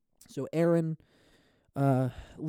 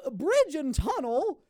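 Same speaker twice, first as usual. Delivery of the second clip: mild hammed-up rhyme; rhyme bit; 13 semitones higher than usual. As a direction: deliver it like a kid's joke. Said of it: "the bit that I'm going for".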